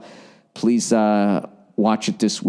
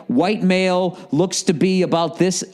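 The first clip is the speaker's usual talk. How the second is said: data log readout; 7 semitones higher than usual. Retold or imitated. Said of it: "They're gonna be like".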